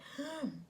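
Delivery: weak, quiet gasp; mimed struggle to get sound out; voiceless attempt to speak. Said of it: "I could barely speak".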